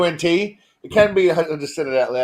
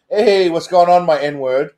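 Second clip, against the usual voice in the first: jovial greeting; 4 dB louder, slower than usual. Shown as a demonstration. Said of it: "As long as it's in a jovial way".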